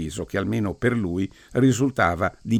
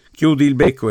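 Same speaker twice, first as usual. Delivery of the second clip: loud, higher rebuke; sharp hush up; 6 semitones higher, 7 dB louder than usual. Acted. Priest silencing Dunn at the graveside, loud sharp rebuke. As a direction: shut him up sharply. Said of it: "esortò il prete".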